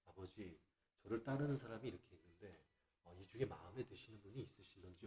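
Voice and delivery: bow your head and ask ever so gently; cautious humble plea. Retold or imitated. Preacher shows a humble request to the Father, hushed and careful. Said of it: "이렇게 조심스럽게 접근해야 되는데".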